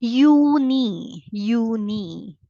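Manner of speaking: Juni with a Y sound, yoo-nee; German Juni. Shown as a demonstration. Teacher modeling German June. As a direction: Juni with y, not English j. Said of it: "is June".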